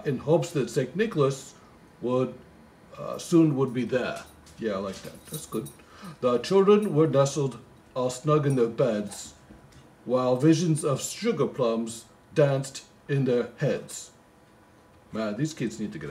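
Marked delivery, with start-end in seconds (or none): 0.0-4.2 poem recital. Acted. Reading the poem aloud. 6.2-14.1 slow, lilting Christmas poem reading; poem recital. Acted.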